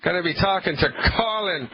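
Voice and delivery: playful mock-Irish radio intro; bad Irish accent. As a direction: announce it in a badly faked Irish brogue. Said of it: "please excuse my bad Irish accent".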